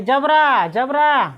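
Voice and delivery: loud call to the dog. Acted. Farmer calling his dog Jabra into the cold night, loud. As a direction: shout the dog's name across the field. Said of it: "उसने जोर से आवाज़ लगाई".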